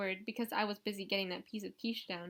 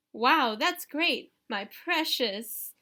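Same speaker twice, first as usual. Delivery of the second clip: slow, louder, higher hissing-creature mock; teasing brother doing Gollum, very slow; Gollum impression; 4 semitones higher, 8 dB louder, much slower than usual. A narrator's reading. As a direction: drag it out like Gollum clutching his ring. Nick mocks the visitor as Gollum.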